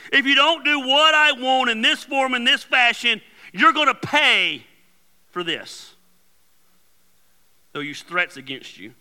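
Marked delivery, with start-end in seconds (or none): 0.1-6.0 threatening boss. Acted. Voicing boss making threats.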